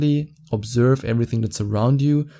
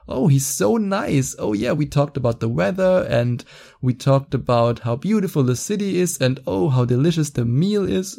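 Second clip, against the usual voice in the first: mock girl voice; 4 semitones higher than usual. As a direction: parody her sweet small talk. Mocking a woman's bland date recap.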